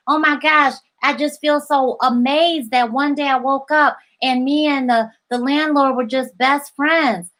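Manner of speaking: live it as if it already happened; overjoyed future self. Pretend.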